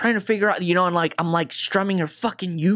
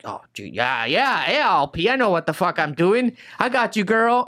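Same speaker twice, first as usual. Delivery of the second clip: acting professional. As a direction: imitate yourself faking cool competence. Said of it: "trying to act professional".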